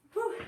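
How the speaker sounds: short exhale of effort; tired whew. Real, not acted. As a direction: blow out a breath. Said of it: "Starting to feel it".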